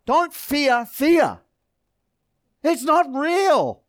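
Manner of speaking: drawn-out, deliberate words, each one weighed; slow emphatic declaration. Real, not acted. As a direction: lay each word down slowly and firmly. Preacher's emphatic climax.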